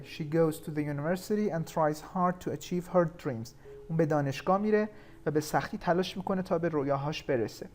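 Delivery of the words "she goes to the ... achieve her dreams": very slow, deliberate example sentence; slow reading. Shown as a demonstration. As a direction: spell the sentence out slowly for the class. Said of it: "همون مثال قبله". (خواندن بسیار آهسته و شمرده)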